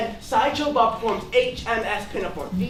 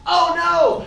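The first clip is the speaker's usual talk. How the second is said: quoting Bart; 7 semitones higher, 5 dB louder than usual. Retold or imitated. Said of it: "And he's like".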